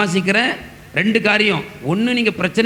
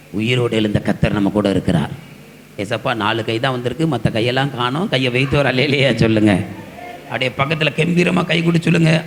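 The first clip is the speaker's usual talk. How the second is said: ordinary talk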